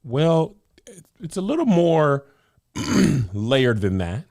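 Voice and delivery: a touch of exasperated rebuttal; retorting. Retold or imitated. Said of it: "And I'm like".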